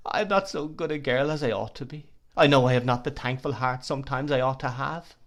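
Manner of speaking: a touch of sobbing, high and earnest; weeping pitifully. Acted. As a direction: admit it through tears. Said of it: "still weeping pitifully".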